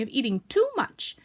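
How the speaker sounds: reproving emphasis; stern. Acted. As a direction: press the blame home. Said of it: "said Rabbit sternly".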